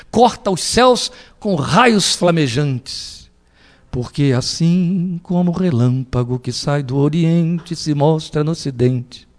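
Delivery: slow, measured reading of the verse; solemn scripture reading. Acted. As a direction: let each word of the verse land slowly. (leitura solene e lenta)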